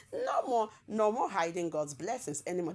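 light mock British accent. Reading Sophia's post in a mild British accent. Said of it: "This one na her British accent".

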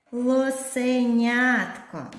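зайченятко stretched slowly, syllable by syllable; drawn-out long word. Shown as a demonstration. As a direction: spell out зайченятко in slow separate beats. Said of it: "графічно зобразимо короткі та довгі слова".

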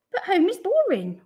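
put-on high, loud childish whine; whining. A narrator's reading. Wilson stuck at home on Saturday, whining. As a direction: complain like a bored child. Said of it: "Wilson whined".

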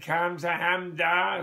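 slow Korean "Kamsahamnida" in a light Jewish accent. Shown as a demonstration. Speaker trying Korean thanks in a Jewish accent, lightly mock. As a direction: drawl "Kamsahamnida" out the way a Jewish uncle might, lightly. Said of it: "with a Jewish accent?".

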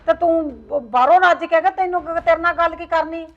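scolding mother. Acted. Mother scolds son about drugs.

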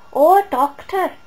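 high, loud, slow Welsh lilt; mock Welsh accent. Mocking the actress calling the doctor, hammed-up Welsh accent. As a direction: gush it in an exaggerated Welsh accent. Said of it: "do the Welsh accent".

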